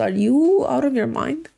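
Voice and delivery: slow, disbelieving "are you out of your mind"; slow exasperated English aside; incredulous. Real, not acted. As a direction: drag it out in disbelief. Outraged aside at the neighbour.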